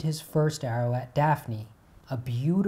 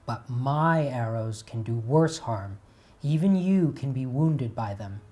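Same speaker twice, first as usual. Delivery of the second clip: ominous threat. Acted. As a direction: let the threat hang in the air. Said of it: "With that ominous threat".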